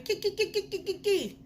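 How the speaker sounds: squeaky high kee-kee laughter; imitated high giggle. Retelling her first wax, she mimics her own high giggle. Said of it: "I was laughing".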